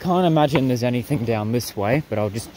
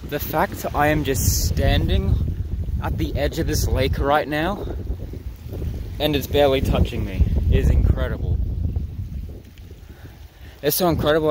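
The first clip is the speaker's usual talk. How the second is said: shouting over wind; 3 semitones higher than usual. Real, not acted. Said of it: "I don't even know if you guys can hear me over the wind".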